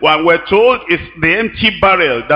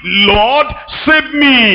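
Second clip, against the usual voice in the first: urgent cry for help; 6 semitones higher, much slower than usual. Acted. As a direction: shout the plea as if drowning. Peter's cry, preacher acts it.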